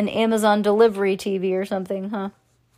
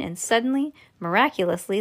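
plain reading voice

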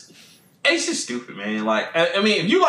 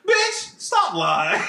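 laughing mock retort; much slower than usual. Retort to viral post.

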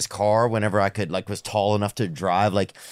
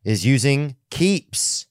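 clear, measured podcast ad read; sponsor ad read. Real, not acted. Host pitching Keeps and Mint Mobile to listeners, ad read. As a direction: read the sponsor copy crisply and evenly.

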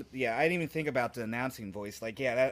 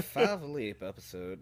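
slow announcer delivery; lightly voiced show announcer; 2 semitones lower, slower than usual. Shown as a demonstration. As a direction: draw it out like an announcer. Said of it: "that's an announcer voice".

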